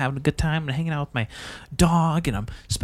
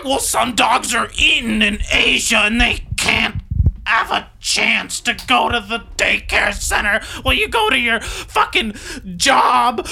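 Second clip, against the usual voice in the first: a bit higher lecturing mockery; sarcastic lecturing voice; mock scold, calmer; 6 semitones higher than usual. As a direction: keep needling like a preachy critic.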